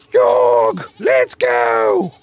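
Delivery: loud shout across the yard; calling out. Acted. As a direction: yell to hurry him along. Character calling out to companion.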